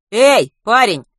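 high, loud hail; calling out. A narrator's reading. Doctor hailing a young man from the porch, calling out. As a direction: shout to get someone's attention from afar. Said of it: "крикнул с крыльца".

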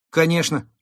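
delighted. A narrator's reading. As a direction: jump at it gladly. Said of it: "обрадовался кот". (обрадованно)

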